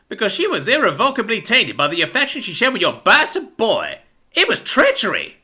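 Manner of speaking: high, unhinged vengeful rant; crazed mouse, building in pitch to outrage; crazed avenger. A narrator's reading. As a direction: justify the killing like a madman. Billy rants at captives.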